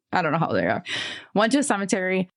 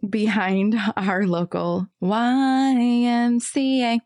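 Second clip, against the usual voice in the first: talking through hiccups; hiccuping between words; 3 semitones higher, slower than usual. Real, not acted. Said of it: "Sorry, I have the hiccups".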